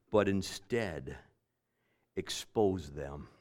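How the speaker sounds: slow, falling on but instead expose them; slow emphasis. Real, not acted. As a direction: lean on every word, slowly. Preacher restates verse slowly.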